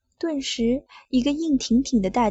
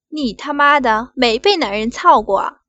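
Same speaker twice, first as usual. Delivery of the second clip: loud taunt; 7 dB louder than usual. Acted. Boss taunting her.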